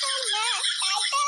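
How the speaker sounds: giggly mock surprise; a flirty sister-in-law laughing in delight. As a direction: gasp and laugh, playfully impressed. Impressed, flirtatious reaction.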